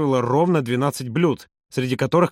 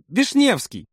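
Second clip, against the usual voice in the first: high-pitched prompt; supply the forgotten name on a high note; 9 semitones higher, much slower than usual. A narrator's reading. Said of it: "подсказала Маша". (подсказка высоким голосом)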